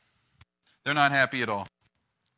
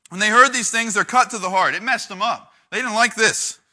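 heated narration; 4 semitones higher, 7 dB louder than usual. A narrator's reading. Narrating the council's fury.

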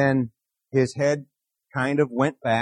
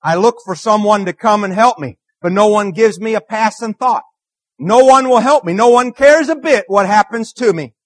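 psalm reading; 4 semitones higher, 5 dB louder than usual. Acted. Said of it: "This is Psalm one forty-two".

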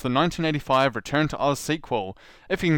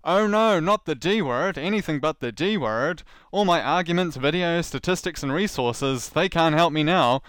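mock despair; 4 semitones higher, 4 dB louder than usual. Mock despair over the D word.

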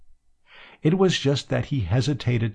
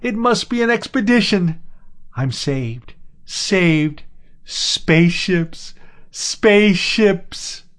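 high, loud shouts of joy; castaway howls at the sight of ships, overjoyed; ecstatic shouting; 11 semitones higher, 6 dB louder, slower than usual. A narrator's reading. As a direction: cry out like a rescued castaway.

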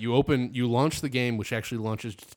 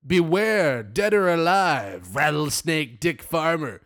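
wanted poster announcer; 3 semitones higher, 6 dB louder, slower than usual. Pretend. Reads wanted poster dramatically.

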